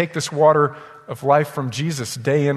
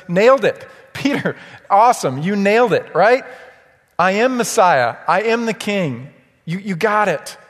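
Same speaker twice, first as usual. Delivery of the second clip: higher, louder, thrilled congratulation; excited praise; 4 semitones higher, 4 dB louder than usual. Acted. Jesus cheering Peter for his answer, louder and higher. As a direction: cheer him on like a delighted teacher.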